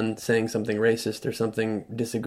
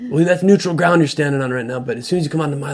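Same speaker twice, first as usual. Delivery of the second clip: louder, slightly higher warning, then faster; territorial local warning; 3 semitones higher, 5 dB louder, faster than usual. Retold or imitated. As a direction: warn him off your lawn. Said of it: "hostile man on the roadside".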